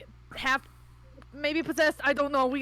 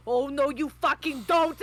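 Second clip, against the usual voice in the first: slow, louder, mildly angry protest; indignant refusal; 2 semitones higher, 5 dB louder than usual. Acted. Character refusing to let a friend die, indignant. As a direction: refuse it firmly, a touch of anger. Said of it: "she sits there in shock for a second before she goes".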